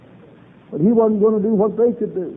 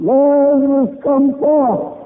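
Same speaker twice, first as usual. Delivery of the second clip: higher, louder call of the name; commanding call; 4 semitones higher, 4 dB louder, slower than usual. Acted. Jesus calling Lazarus out of the tomb, commanding call. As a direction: summon a dead man out of the tomb.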